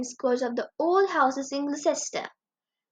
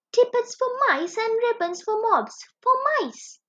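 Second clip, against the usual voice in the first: put-on old tailor voice; 7 semitones higher than usual. Tailor muttering over snippets.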